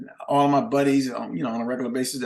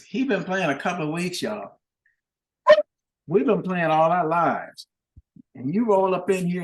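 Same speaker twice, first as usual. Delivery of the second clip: higher, mocking emcee voice to the crowd; mocking announcement; 4 semitones higher than usual. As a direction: rib the newcomer in front of the full house. Bandleader mocking him on mic.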